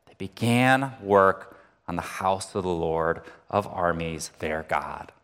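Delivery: measured, solemn Bible reading; scripture reading. Acted. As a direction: read the verses like a pastor from the pulpit. Reads Haggai passage aloud.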